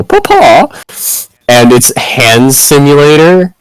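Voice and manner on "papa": high yelled call; shouted call. Retold or imitated. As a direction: yell it out across the room. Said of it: "someone go".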